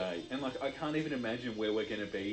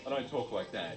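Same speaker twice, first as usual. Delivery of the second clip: normal talking voice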